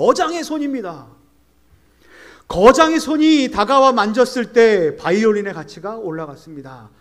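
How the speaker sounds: high, loud exclamation, as if shouting.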